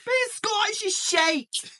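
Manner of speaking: high, slow voice through laughter; squeaky laughing put-on voice; laughing mock voice. Jokey accent banter, laughing.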